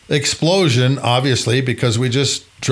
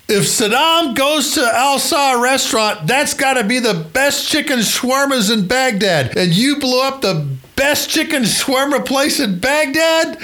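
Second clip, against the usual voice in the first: mock indignant general; 13 semitones higher than usual. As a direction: wail about losing the shawarma place. General continues mock complaint.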